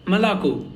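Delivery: "Malako" with light first vowels, strong final O; stress on last O. Shown as a demonstration. Teacher repeating the word for milk, final O stressed in "Malako". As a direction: land on the end of "Malako". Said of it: "only last O is stressed".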